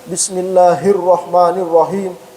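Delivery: Bismillahirrahmanirrahim recited slowly with a clear ha; demonstrating the careful reading; slow careful recitation. Shown as a demonstration. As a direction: chant it slowly, each letter clear. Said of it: "Baca bismillah".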